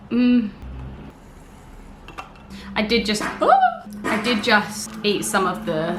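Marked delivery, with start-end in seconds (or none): 4.0-5.9 talking through a mouthful of croissant; chewing while talking. Real, not acted. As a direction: mouth full, chewing as she speaks. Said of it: "Sorry, I'm chewing so aggressively".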